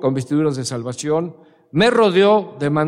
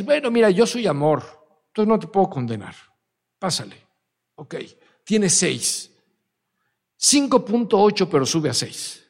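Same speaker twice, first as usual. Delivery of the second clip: mock lenient God. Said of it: "Dios va a decir".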